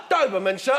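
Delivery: lightly voiced shop assistant. Pet shop man answers a customer, lightly acted politeness. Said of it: "Geezer gone".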